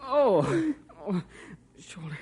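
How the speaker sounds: low, broken moans between words; whimpering in pain, forcing out each word; crying from pain.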